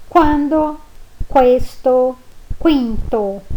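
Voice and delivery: quando, questo, quinto with a clear kw sound; Italian qu words. Shown as a demonstration. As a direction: say the u in each, kw. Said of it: "como se existisse a trema".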